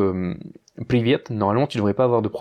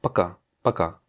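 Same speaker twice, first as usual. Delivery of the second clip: "Пока" with КА stressed, said twice; stress on final A; 5 semitones lower than usual. Shown as a demonstration. Teacher modelling the word for goodbye, stress on КА in "Пока". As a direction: stress the last syllable of "пока". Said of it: "l'accentuation est sur le A".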